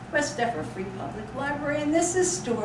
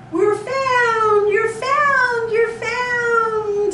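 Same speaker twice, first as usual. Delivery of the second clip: high, louder sing-song call; cheerful call; 11 semitones higher, 7 dB louder, much slower than usual. Pretend. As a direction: call out joyfully to the children. Shouting that bunny is found.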